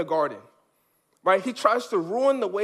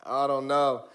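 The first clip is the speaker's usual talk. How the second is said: mildly voiced smooth-talking serpent selling the fruit; a hint of a sly serpent; slick tempter. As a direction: pitch it like a salesman. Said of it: "Satan comes along and says".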